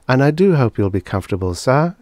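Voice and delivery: fast, repeating like a machine; stuck robot voice. Acted. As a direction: loop the line like a jammed robot. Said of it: "she said again".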